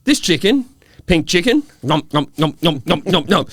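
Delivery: high, loud goofy bloke; hammy mate voice. Retold or imitated. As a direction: play the careless mate eating raw chicken. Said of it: "And he goes".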